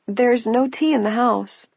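put-on high, slow old woman voice. A narrator's reading. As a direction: speak like a frail old lady.

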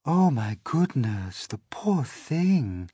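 ladybird voice. Acted. Ladybird pitying James, high and slow. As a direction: coo it with pity, slowly. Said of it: "the ladybird cried".

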